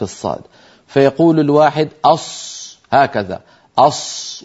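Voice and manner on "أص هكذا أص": أص whispered with pursed forward lips; rounded-lip ṣād. Shown as a demonstration. Teacher imitating a common error, rounding the lips on أص. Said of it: "ويزم شفتيه إلى الأمام".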